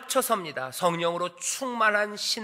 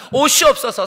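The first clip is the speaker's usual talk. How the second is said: louder, higher loving call to the beloved; loving cry; 4 semitones higher, 8 dB louder than usual. Acted. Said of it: "연인을 향해 외칩니다". (연인을 향해 크게 부르는 외침)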